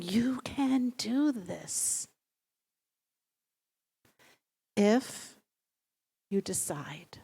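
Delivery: slow, breathy whisper of encouragement; inner-voice whisper. Acted. Intuition urging the listener to decide, slow whisper.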